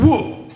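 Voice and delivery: high, half-hearted crowd cheer; checked woo. Retold or imitated. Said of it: "he got a checked woo".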